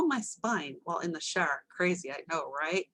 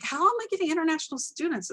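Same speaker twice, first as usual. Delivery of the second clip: higher, louder puzzled question; retold question; 10 semitones higher, 5 dB louder, faster than usual. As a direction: ask it, much higher and a bit louder, puzzled. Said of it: "I was like".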